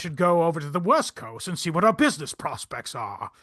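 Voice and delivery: lightly voiced Boston Brahmin; a hint of upper-class Boston accent; old money Boston accent. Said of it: "he's like a Boston Brahmin voice".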